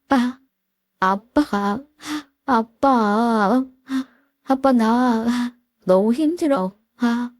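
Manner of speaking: breaking, drawn-out cries of dad; a daughter finally crying to her father; tearful plea. Retold or imitated. Daughter sobbing out her pain to her dad, voice high and drawn out. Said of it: "눈물이 줄줄 흘러내렸고".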